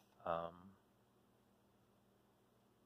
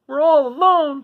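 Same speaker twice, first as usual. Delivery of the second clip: trembling a bit; 12 dB louder than usual. Acted. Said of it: "her voice trembling a bit".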